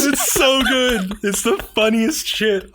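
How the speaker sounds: high, slow, drawn out with laughter; savoring the joke while cracking up; laughing. Real, not acted. Gushing to the co-host about the scene, laughing.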